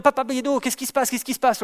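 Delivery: high, pleading call to the other man; mock worried plea; anxious appeal. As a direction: beg him to explain the silence. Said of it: "en disant".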